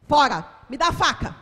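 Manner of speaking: barked order, loud and final; stern shouted command; sharp command. Retold or imitated. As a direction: demand the knife with authority. Ordering the man to hand over the knife.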